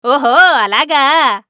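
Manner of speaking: slow, knowing mock amusement; amused. A narrator's reading. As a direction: draw it out with a sly chuckle in the voice. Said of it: "నవ్వుతూ అన్నాడు".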